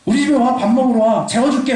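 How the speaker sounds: lightly acted, breezy show of hospitality; effusive invitation. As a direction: toss out invitations like a big-hearted host. Acted Jeolla person's eager invitation.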